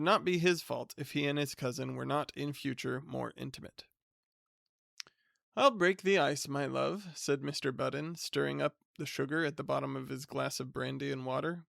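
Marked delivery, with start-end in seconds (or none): 5.6-7.1 lightly voiced hearty husband; a touch of smug cheer, raised at the start; Mr Budden's voice. Husband announcing his plan to his wife, lightly voiced.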